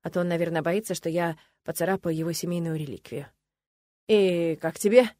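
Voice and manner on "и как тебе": slow question, voice a little hoarse; slightly husky voice. A narrator's reading. Nolan asks about the sword, voice slightly husky. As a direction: ask it slowly in a lightly husky voice. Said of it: "немного севшим голосом спросил".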